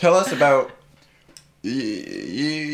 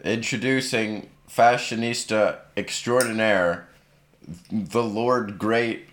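put-on kids party magician; slower than usual. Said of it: "Can you repeat my, uh, title?".

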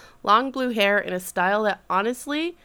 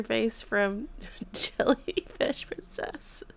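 whisper; 8 dB quieter, much slower than usual. Real, not acted. Whispered aside mid-laugh.

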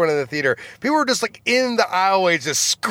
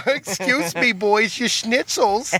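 put-on old Jewish woman voice; 4 semitones higher than usual. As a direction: scold like a fussy old Jewish lady. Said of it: "this old Jewish woman".

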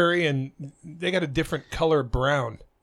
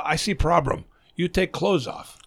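a joke's doctor in a thin mock Thai accent; a hint of a hammed-up Thai accent. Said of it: "I have to do the Chinese voice or the Thai voice".

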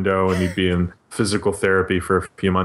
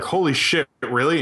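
mock amazed reaction, pitched up; surprised; 4 semitones higher than usual. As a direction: act out a stunned friend. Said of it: "you're like".

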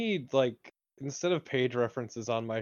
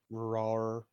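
roar; 2 semitones lower, 3 dB quieter than usual. Acted. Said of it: "just kind of growls".

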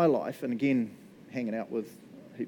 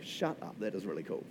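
whispered, softer, lower in awe; amazed whisper; 6 semitones lower, 8 dB quieter than usual. Retold or imitated. Preacher telling the church his reaction to the reading, in an amazed whisper. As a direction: breathe it out like you can't believe how cool it is.

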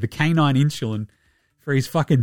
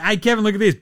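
mock taunt; 6 semitones higher, faster than usual. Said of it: "They're just like".

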